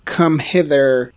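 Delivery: mock slow-motion beckoning. Player mimes waving at her, slow-mo. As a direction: stretch it out slowly, as if gesturing. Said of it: "like, a slow-mo".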